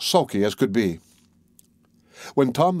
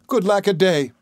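high-pitched little man's dismay; dismayed exclamation; 8 semitones higher, 3 dB louder than usual. A narrator's reading. Tom wakes in the cow's mouth, dismayed. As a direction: exclaim it high, taken aback.

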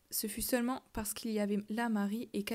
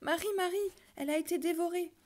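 higher, louder anguished cry; cry near tears; 8 semitones higher, 3 dB louder, faster than usual. A narrator's reading. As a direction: blurt it out, on the edge of tears. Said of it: "Il s'écria au bord des larmes".

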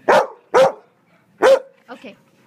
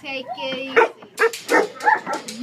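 drawn out, very slow calming; slow soothing; 7 dB louder, much slower than usual. Real, not acted. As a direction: stretch every word to soothe the dog. Calming an excited dog.

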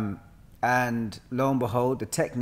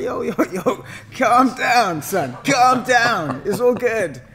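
mock calming teacher; 11 semitones higher, 7 dB louder, slower than usual. Teacher calming a panicking student.

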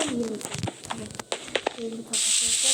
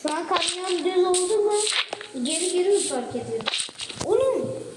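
excited yelling; 5 semitones higher than usual. Real, not acted. Friend yelling about bad parking.

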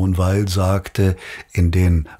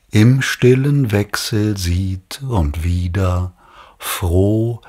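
slow, measured reading of solemn verse; formal poetry reading with weighted words; poem recitation; slower than usual. Acted. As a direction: recite it deliberately, pausing between the lines. Recites a Hölderlin poem to audience.

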